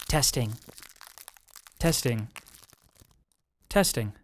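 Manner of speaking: put-on older voice. Shown as a demonstration. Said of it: "let me age up the voice a little bit".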